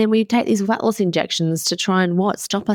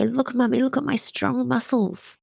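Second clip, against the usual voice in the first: imitating her kids showing off their muscles, higher; lightly voiced child; 5 semitones higher, 4 dB quieter than usual. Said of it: "they go".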